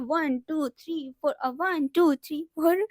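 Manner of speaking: playful mock workout counting; aerobics instructor count. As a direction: count along as if leading an exercise class. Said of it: "ऐसे करके नहीं सिखाते हैं". (Aerobics teacher की मज़ाकिया नकल)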